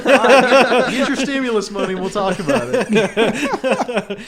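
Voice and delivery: high, loud laughing delivery, a bit slow; loud amused laugh through the line; laughing loudly. Real, not acted. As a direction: laugh the words out while teasing a friend. Joking about paying off tab.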